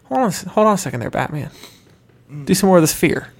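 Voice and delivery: laid-back crooner stopping someone mid-scream; lightly voiced unbothered crooner; famous crooner's voice. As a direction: ease them down like a mellow singer. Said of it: "That's how he talks".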